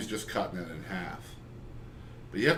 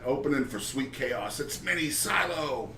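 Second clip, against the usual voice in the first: mock band announcer; 4 semitones higher than usual. Host pretends to introduce an opening band, mock announcer. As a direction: introduce the joke opening act, stretching the name.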